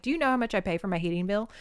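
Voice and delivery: fast, mock-indignant complaint; annoyed. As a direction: rattle off the grumble. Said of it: "She's just like".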